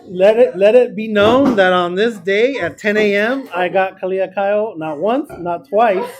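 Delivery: loud, high-pitched triumphant announcement; mock proclamation. Teacher announcing he got a student three times, mock proclamation. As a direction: proclaim it grandly, half laughing by the end.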